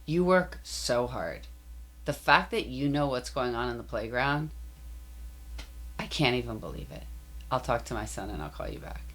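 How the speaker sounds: put-on lightly done thick Persian accent. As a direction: quote her in a heavy Persian accent. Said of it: "in her very thick Persian accent".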